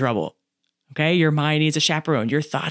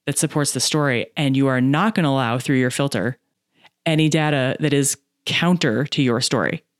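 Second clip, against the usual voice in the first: usual speaking voice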